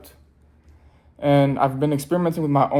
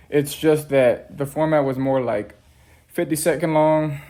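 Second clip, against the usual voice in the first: breathless after the stairs; talking while catching breath. Real, not acted. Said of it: "Sorry, I'm out of breath".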